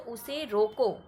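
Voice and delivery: उसे रोको as a phrase of its own, then stop; stop after रोको. Shown as a demonstration. Teacher shows where the comma falls, stopping after रोको. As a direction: halt right after रोको. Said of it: "यहाँ पे हमें थोड़ी देर के लिए रुकना पड़ता है".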